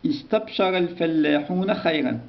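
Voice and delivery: استبشر stressed, falling at the end; slow reading aloud. Shown as a demonstration. Teacher reads the example sentence slowly to pupils. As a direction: read it out clearly for pupils. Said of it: "reading sentence to class".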